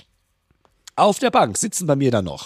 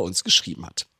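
lightly put-on seductive voice; a hint of sultry reading; sexy voice; 9 semitones lower, 5 dB quieter than usual. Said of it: "mit meiner sexy Stimme".

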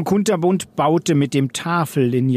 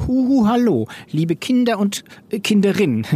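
high singsong call to the class; teacher's greeting; 7 semitones higher than usual. A narrator's reading. Teacher addressing her class, high calling greeting. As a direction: hail the children in a high voice.

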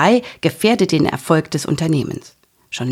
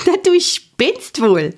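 laughing; 12 semitones higher, slower than usual. A narrator's reading. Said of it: "lachte sie laut los".

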